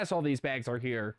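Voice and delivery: flat robotic confirmation; computer voice. Retold or imitated. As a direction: answer like an old machine. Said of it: "That's my computer voice".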